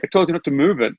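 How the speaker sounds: high-pitched mock telling-off, own accent; retold telling-off. Butcher scolding a customer retold, mildly indignant in own accent. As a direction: insist like an annoyed butcher, no put-on accent.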